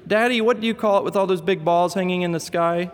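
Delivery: put-on high, curious little boy; little boy asking. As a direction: ask daddy for the word. Boy asks dad mid-story.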